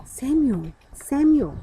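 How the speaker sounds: put-on a voice calling the boy for the third time. A narrator's reading. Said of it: "he was called".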